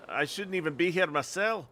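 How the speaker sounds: lightly acted Scottish lookout; Scottish accent. Lookout grumbling to visitors, Scottish accent. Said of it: "get the Scottish accent going".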